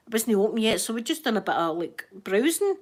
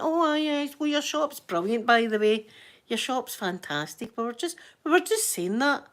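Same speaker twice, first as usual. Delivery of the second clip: gushing cover-up; 4 semitones higher than usual. Retold or imitated. Replays flattering the shop owner.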